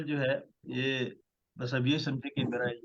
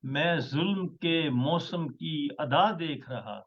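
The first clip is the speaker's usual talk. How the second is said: measured, stately poetry recital; ghazal recitation; 2 semitones higher, slower than usual. Acted. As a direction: recite each line with weight. Poet recites his ghazal.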